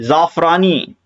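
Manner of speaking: जाफरानी slowly, with z and f; nukta sound. Shown as a demonstration. Teacher giving an example word, nukta sound. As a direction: say जाफरानी as "zaafraani", drawn out. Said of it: "नुक्ता लगा दिया".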